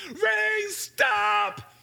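high, loud yell at the rain; a boy bellowing from the porch; yelled command. Retold or imitated. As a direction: shout it up at the sky, demanding. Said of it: "I just yelled it three more times".

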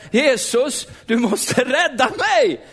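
high, drawn-out plea to be rescued; desperate cry out. Retold or imitated. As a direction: cry out to Jesus, stretching the last words. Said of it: "Och jag bara ropade". (förtvivlat rop på hjälp, återberättat)

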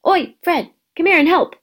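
calling out. A narrator's reading. Twin shouting to his brother across the platform to help. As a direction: call your twin over, loud.

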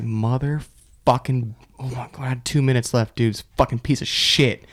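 mildly seething to yourself, word by word; mock grumbled cursing. Worker cursing a call two minutes before clocking out, mock exasperation.

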